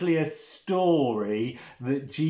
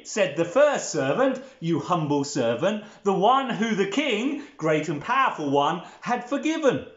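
put-on children's storytelling; 2 semitones higher than usual. Telling children of a king and his servant, theatrical storytelling.

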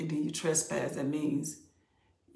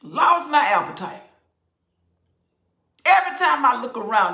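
Ezra's voice; 6 semitones higher, 7 dB louder than usual. Retold or imitated. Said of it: "He said".

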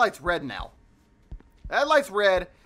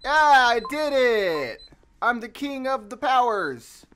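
slow, proud and loud; gloating victory cry; triumphant; 4 semitones higher, 5 dB louder, slower than usual. Real, not acted. Triumph after restoring power.

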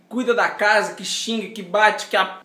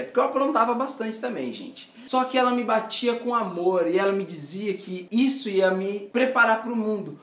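ordinary delivery

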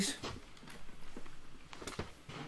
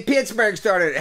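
whining; 5 semitones higher than usual. Retold or imitated. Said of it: "he'll be whining about shit".

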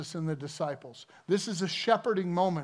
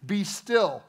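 louder, firm command to the storm; rebuking command; 5 dB louder, much slower than usual. Retold or imitated. Jesus rebuking the wind and waves, a loud firm command. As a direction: order the wind to stop. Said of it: "he rebuked the wind and the waves".

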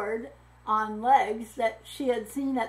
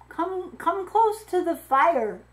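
gentle welcome; 7 semitones higher, 6 dB louder than usual. A narrator's reading. Victor invites girl to fire.

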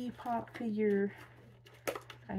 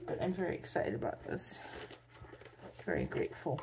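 drained; 2 semitones lower, 4 dB quieter, faster than usual. Real, not acted. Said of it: "I don't sound as enthusiastic".

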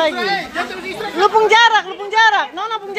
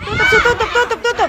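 coach shout; 3 semitones higher than usual. Real, not acted. Coach yelling ringside.

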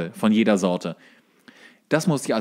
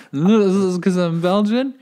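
put-on louder, slow, whiny English as a drunk tourist; drunk Belgian guest; 7 semitones higher, 6 dB louder, slower than usual. Drunk Belgian guest protesting his bar ban, in a slow whiny English accent. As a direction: plead slowly in English, playing the offended drunk. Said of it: "ich die ganze Zeit".

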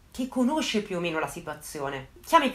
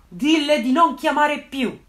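slow mock yell, louder; retold yell; 5 semitones higher, 7 dB louder, slower than usual. Officer shouting at the caller from the back, mock yell. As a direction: bark it out like an angry officer in the background. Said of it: "un altro carabiniere che urla".

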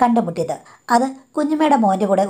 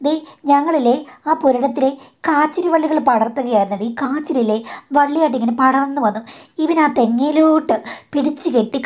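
higher, sugary innocent-sounding explanation; mother-in-law's sweet excuse; 5 semitones higher than usual. Retold or imitated. Mother-in-law to daughter-in-law, covering up in a higher sweet voice. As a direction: play the guilty mother-in-law acting innocent.

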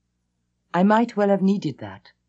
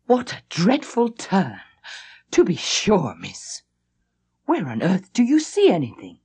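shocked protest. Acted. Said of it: "shocked protest, a burst of high disapproval".

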